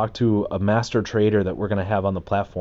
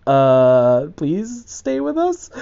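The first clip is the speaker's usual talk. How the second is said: pleading; 7 semitones higher, much slower than usual. Retold or imitated. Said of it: "We're like".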